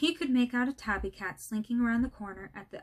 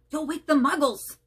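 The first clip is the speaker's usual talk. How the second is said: louder, higher rebuke; urgent scold; 5 semitones higher, 8 dB louder than usual. A narrator's reading. McGonagall scolding Hagrid for his howl, urgent louder rebuke.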